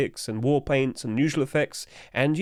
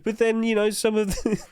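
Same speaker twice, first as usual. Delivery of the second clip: laughing; 8 semitones higher than usual. Real, not acted. Cracking up at a silly item.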